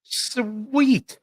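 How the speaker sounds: high, drawn-out delight; gleeful, high-pitched exclamation. Real, not acted. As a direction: relish it, stretching the word up high. Delighted at being given power.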